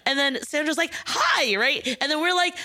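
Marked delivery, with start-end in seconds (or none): 1.0-1.5 very high, imitated hello; pitched-up mock greeting; excited greeting. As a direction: squeal a friendly hello.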